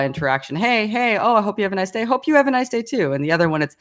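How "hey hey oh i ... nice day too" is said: higher, breezy, hollow nicety; mock perfunctory neighbour chat; exaggerated bland pleasantry. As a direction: toss off the small talk like it means nothing. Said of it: "I was exaggerating it in my example".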